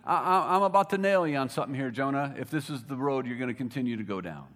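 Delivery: laughing through a gentle rebuke; half-laughing mock warning; amused God voice. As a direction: tease him with a chuckle. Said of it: "I could just see God saying".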